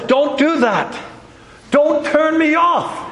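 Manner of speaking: God urging, a touch insistent; God pleading. Acted. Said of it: "But God says".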